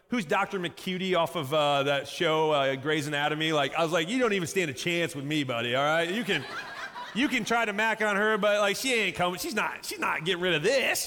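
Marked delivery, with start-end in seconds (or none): 4.1-11.1 hammed-up boyfriend bravado; playfully overconfident trash talk; cocky. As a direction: brush off a rival with mock swagger. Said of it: "a little too cocky".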